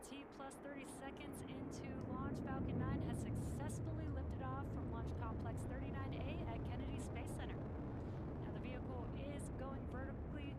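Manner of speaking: excited. Real, not acted. Host right after liftoff.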